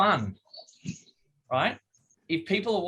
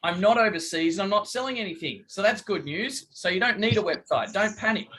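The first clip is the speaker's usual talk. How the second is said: playful; 3 semitones higher than usual. Shown as a demonstration. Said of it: "have some fun with it and go".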